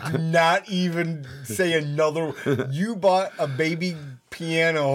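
slow, deliberate disbelief; measured, amused incredulity; incredulous recap. Real, not acted. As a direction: spell it out slowly, stunned. Incredulous recap of friend's story.

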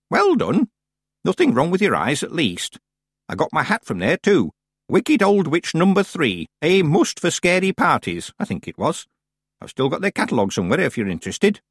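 put-on high, approving old-woman voice; old witch, pleased. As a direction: praise her, then chat on proudly. Plays Miss Treason.

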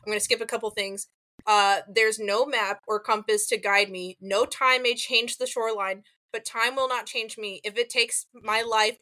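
reciting lyrics. Retold or imitated. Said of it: "in a beautiful British accent, he says".

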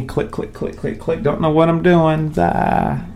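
whispered mom impression, clicking around; imitating mom. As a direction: play a confused mom. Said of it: "That's my impression of my mom".

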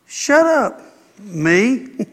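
a quick self-rebuke; self-scolding. Shown as a demonstration. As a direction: snap at yourself to hush. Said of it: "you ought to practice and go".

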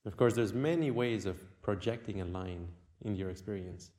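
unhurried meditation guide with long pauses; guided meditation. Acted. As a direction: guide the listener inward, leaving long silences.

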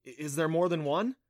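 stammering, mildly surprised question; startled. Acted. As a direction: trip over the first word, a touch startled.

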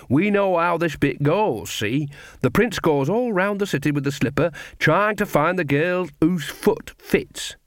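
chatty Nanny. Acted. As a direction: explain it cheekily, as if wise to the plan. Nanny's dialogue, performed.

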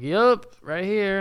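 high, eager call-out; eager answer. Retold or imitated. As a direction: pipe up keenly when your name is called.

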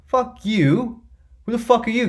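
imitating your own furious reply; mock angry comeback. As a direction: fire it back like you're fed up. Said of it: "I'm like".

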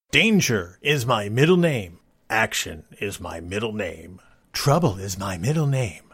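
lightly voiced slow action-hero boast; a hint of low, self-serious hero; mock action hero.

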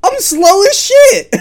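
high, slow pirate dwarf growl. Pretend. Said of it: "You sounded like a pirate for a second".

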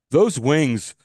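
slow, drawn-out mock quote of someone overusing literally; mock example quote. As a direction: lay it on thick, lingering on each word to mock the habit. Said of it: "if I say to you".

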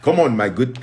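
put-on tentative Nigerian accent. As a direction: try out a Nigerian accent, half-sure. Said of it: "I'll work on my Nigerian accent".

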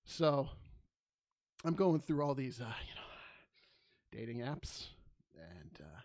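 imitating a nervous comic, halting with long pauses; nervous amateur comic. Retelling a nervous comic's open-mic set, mock nervous. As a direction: stumble through the setup with uhs and gaps. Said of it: "he's all, like, real nervous".

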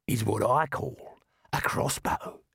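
slow, cocky Aussie voice; tough Aussie dwarf. Acted. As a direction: drawl it with confidence. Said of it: "he said".

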